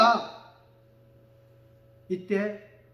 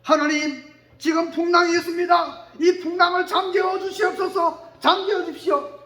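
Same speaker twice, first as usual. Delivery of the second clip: shouted plea to God, pitch raised; loud prayer; 4 semitones higher, 5 dB louder than usual. Retold or imitated. Preacher voicing a loud prayer to God, shouting. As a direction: cry out to God for the storm to stop.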